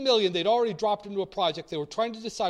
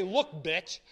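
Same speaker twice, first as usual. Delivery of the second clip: a blunt, rude Look, bitch; mock rude comeback; crude retort. Shown as a demonstration. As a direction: snap it at a critic. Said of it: "you don't say it like that".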